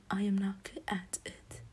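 "not good at it" with the T's dropped; skipped T's. Shown as a demonstration. Speaker showing their attempted British accent, T's skipped in "at it". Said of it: "I literally skip the T's".

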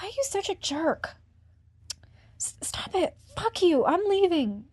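loud, sharp burst of anger; angry outburst. Acted. Woman lashing out at a pushy partner, loud and angry. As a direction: snap back at him and storm off.

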